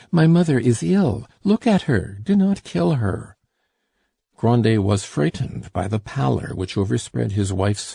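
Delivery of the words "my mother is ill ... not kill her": higher, louder desperate begging; desperate plea. A narrator's reading. Daughter kneeling begging father to spare her ill mother, higher and louder. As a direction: beg for your mother's life. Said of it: "said the daughter, falling at Madame Grandet's knees".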